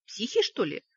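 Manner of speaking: snide. Acted. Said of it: "ехидно сверкнул глазами".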